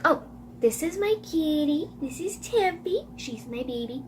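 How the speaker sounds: soft cooing to a pet. Real, not acted. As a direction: coo to the kitty. Talking sweetly to her cat.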